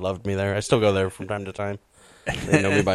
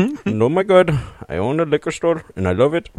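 liquor store owner stereotype; 7 semitones higher, 4 dB louder than usual. Retold or imitated. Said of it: "it's just stereotypes".

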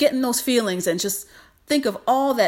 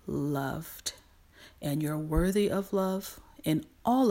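tender affirmation; 2 semitones lower, 4 dB quieter than usual. Real, not acted. Tender closing affirmations to viewers.

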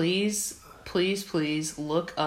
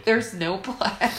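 mocking voice; 4 semitones higher, slower than usual. Repeats coworker's complaint mockingly.

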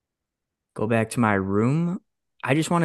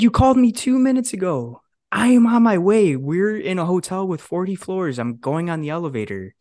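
much higher, loud, indignant; exasperated retort; 7 semitones higher, 3 dB louder than usual. Retold or imitated. Employee arguing with boss over the phone, much higher and loud. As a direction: push back hard, fed up.

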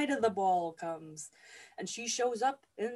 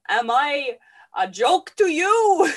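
loud, rising, drawn-out protest; hammed-up indignant yell; indignant outburst; 3 semitones higher, 12 dB louder, slower than usual. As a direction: cry out as the slighted bride. Ignored bride bursts out in retelling.

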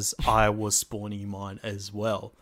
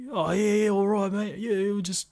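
hammed-up bogan bloke, higher and louder; full Bogan; 10 semitones higher, 3 dB louder than usual. Mates on a smoko break hamming it up as bogans, higher and louder. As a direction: lay on the lazy bogan mateship. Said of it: "We became full on Bogans".

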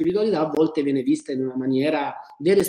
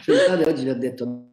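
laughing. Real, not acted. Laughing while admitting tiredness.

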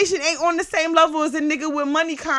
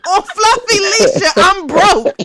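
laughing; 5 semitones higher, 6 dB louder, slower than usual. Real, not acted. Laughing while ranting.

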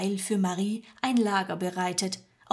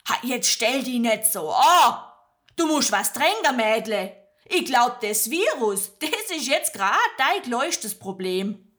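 a hint of a brusque farm woman; brisk scolding; 3 semitones higher, 5 dB louder than usual. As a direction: chide her kindly to drink. Magda scolds gently. (Magda schimpft gutmütig)

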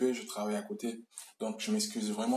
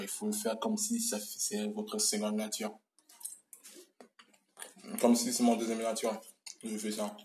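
mouth full. Real, not acted. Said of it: "Je mange".

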